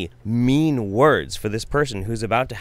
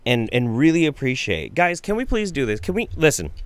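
higher, mocking imitation of her plea; mocking the medium; 5 semitones higher than usual. Host mimicking the crying psychic's plea, high mock whine. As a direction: parody her whiny "can we just take a moment". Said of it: "guys, can we just take a moment?".

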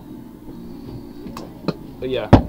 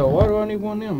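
higher-pitched voice for the buddy; buddy's voice, higher; 9 semitones higher, 4 dB louder, faster than usual. Retold or imitated. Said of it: "He said".

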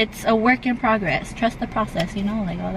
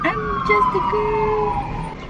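put-on slow, squeaky little-girl whine; high cutesy girl voice; much slower than usual. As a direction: play dumb and cute. Meme line, high and slow.

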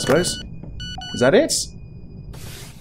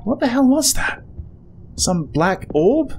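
startled; 11 semitones higher than usual. Real, not acted. Startled by noise in game.

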